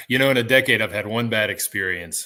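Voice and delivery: robotic, glitchy bad connection; cyborg voice. Real, not acted. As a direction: sound like a cyborg on a bad line. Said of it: "You sound like a cyborg".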